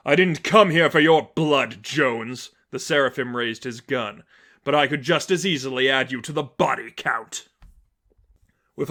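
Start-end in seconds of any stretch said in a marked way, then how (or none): 0.1-7.5 threatening villain. Acted. Seraphim threatens Croc.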